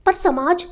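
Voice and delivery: "पर समाज" left hanging mid-sentence; deliberately unfinished. A narrator's reading. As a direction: break off after "समाज", thought incomplete. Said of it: "अपना वाक्य जानबूझकर अधूरा छोड़ दिया".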